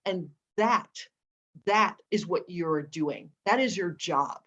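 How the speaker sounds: lightly imitated elder, deliberate and solemn; Maya Angelou. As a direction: hand down a life's calling, word by word. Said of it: "And with that voice".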